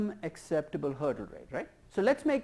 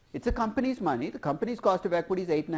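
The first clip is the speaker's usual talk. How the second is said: backer defending the choice. Acted. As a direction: back the student up firmly. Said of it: "I'll play the person backing you up".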